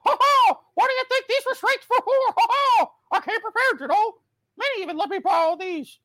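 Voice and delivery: high squeaky cartoon mouse; Mickey Mouse voice. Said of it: "this Mickey impression".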